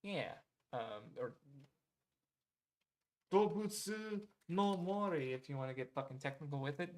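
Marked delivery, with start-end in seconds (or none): 3.3-5.3 slow, higher, showy title reveal; stretched-out, pedantic flourish; mock-pedantic announcement. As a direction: draw out the Japanese title with playful ceremony. Showily giving the Japanese title.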